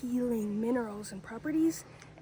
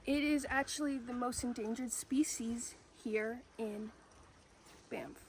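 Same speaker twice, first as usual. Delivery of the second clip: whispering; 8 dB quieter than usual. Real, not acted. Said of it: "you're cut off from the camera".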